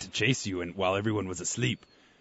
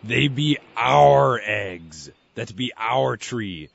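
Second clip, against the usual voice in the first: pirate growl; 7 dB louder, much slower than usual. Acted. Pirate bird asserts ownership.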